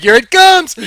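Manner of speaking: high, loud, keyed-up warning; tense anticipation. Retold or imitated. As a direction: brace yourself and call it out. Bracing for an attack.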